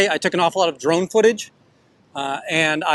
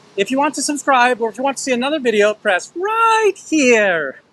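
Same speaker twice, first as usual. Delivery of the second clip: put-on young female voice, pitched up; 8 semitones higher than usual. Ending a live stream and thanking viewers, in a young female voice. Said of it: "in my best young uh, young female voice".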